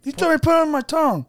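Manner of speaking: talking around a lozenge; mouth full. Real, not acted. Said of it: "You can't do the podcast like this".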